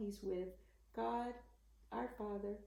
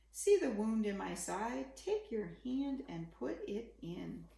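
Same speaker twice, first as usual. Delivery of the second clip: put-on gentle read-aloud for children; story narration. A narrator's reading. Parent reading a bedtime picture book, gentle storytelling. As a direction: read the rhyming story to a little one.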